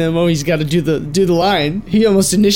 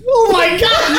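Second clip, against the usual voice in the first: high exasperated laugh; 13 semitones higher, slower than usual. Real, not acted. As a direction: break up laughing. Flubs line, exasperated laugh.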